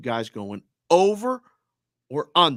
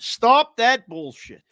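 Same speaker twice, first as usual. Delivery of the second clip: emphatic swear; 8 semitones higher, 5 dB louder, much slower than usual. Real, not acted. Host finally swears, emphatic.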